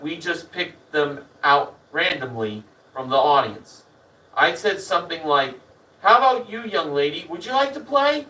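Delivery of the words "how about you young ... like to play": lifted, inviting host voice, rising high on "play"; host's invitation. Retold or imitated. Host picks a girl from the audience, showman's invitation. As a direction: call out a friendly invitation to the audience.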